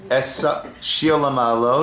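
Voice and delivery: measured, phrase-by-phrase psalm leading; slow prayer recitation. Real, not acted. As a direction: recite slowly for others to repeat. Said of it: "I'll say it slowly".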